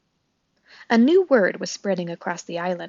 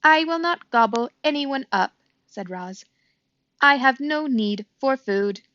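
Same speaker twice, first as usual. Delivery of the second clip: higher, even robot voice; 5 semitones higher than usual. Acted. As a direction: answer calmly like a robot. Robot character answering calmly.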